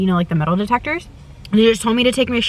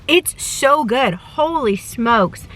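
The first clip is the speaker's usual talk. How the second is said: slow savoring delight; 3 semitones higher, much slower than usual. Real, not acted. Savoring food in car.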